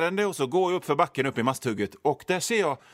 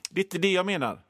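ordinary delivery

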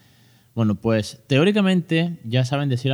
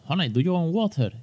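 asking his son; 7 semitones higher than usual. Retold or imitated. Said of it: "si le digo".

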